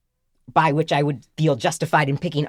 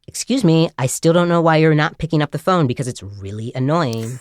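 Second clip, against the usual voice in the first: lightly mimicked recorded nag; a hint of a miffed Valley girl; nagging ringtone voice. Ringtone scolding a stranger for not answering, mildly annoyed. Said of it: "then it continues, and it's like".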